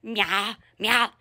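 two short, low meows; a quick low imitation of meowing; imitated meow. Showing viewers roughly how it goes, short low meows. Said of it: "uh, something like that".

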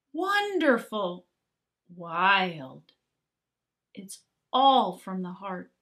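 measured, rhyming storybook narration; picture book reading. A narrator's reading. Reading a rhyming picture book to young kids, storyteller voice. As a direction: read the verse aloud to a class of children.

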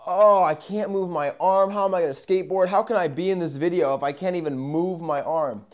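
high, distressed whine that eases off; acted panicked lament. Injured skater fears losing the video role, acted high lament. Acts out panic about arm.

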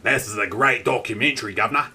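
hammed-up British executive accent; weird British "governor" accent. Cadbury's HQ boss praising the documentary, weird British accent. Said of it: "That was kind of a weird accent".

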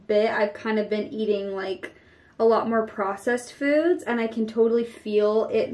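muffled through fingers; speaking behind hand; hand over mouth. Real, not acted. Seen 1: Fingers rest over mouth while rubbing clay mask, later half.

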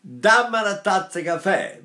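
northern Italian crisp vowels on "Dammi una tazza caffè"; plain northern Italian. Retold or imitated. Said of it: "the Italians, up north say".

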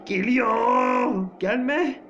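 yüksek ve telaşlı uyarı; heyecanlı. Real, not acted. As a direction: panikle sesini yükselt. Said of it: "Ay pardon, heyecanlandım". (rahibe yaklaşınca heyecanlı bağırış)

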